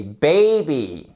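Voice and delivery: put-on "Baby" with a strong gliding ay; "Baby", first vowel drawn into ay; diphthong demo. Shown as a demonstration. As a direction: say "Baby" with a full diphthong, as a teacher models it. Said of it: "comme un peu le A de oseille".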